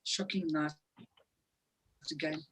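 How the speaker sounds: barely awake, voice fading out; nodding off. Real, not acted. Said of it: "I'm half asleep".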